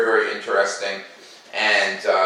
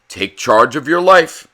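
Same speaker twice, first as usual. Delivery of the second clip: coach; 4 semitones higher, 8 dB louder than usual. Acted. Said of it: "he told his pupils".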